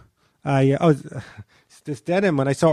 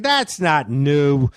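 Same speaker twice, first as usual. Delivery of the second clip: Norm taunt; much slower than usual. Retold or imitated. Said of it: "he would taunt me".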